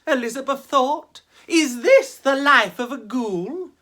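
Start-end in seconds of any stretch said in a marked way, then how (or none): 1.5-3.7 put-on much higher, louder let-down girl voice; a young ghost deflated by her afterlife; high girlish dismay; disappointed ghost girl. Elizabeth's disappointed thought.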